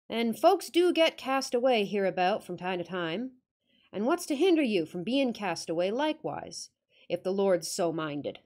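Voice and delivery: put-on gruff northern countryman, half-hearted accent; Yorkshire accent attempt. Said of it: "I'm going to attempt the accent".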